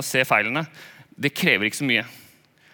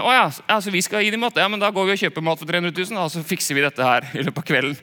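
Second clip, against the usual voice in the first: higher, sarcastic "oh sure, we'll feed them"; mock the impossible order with irony; ironic disciples; 4 semitones higher than usual. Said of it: "en slags ironisk greie fra disiplene".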